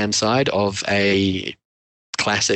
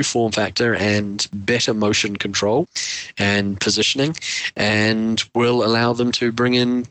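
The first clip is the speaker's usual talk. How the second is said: am radio. Real, not acted. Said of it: "you sound like you're on a, on an A M radio".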